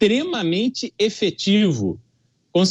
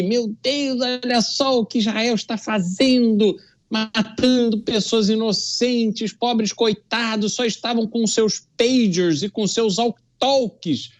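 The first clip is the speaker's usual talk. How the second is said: mocking dismay. Commentator mimicking protesters he scorns, mild mock dismay. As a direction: parody the protesters' outrage, lightly. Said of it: "ficam todas estridentes".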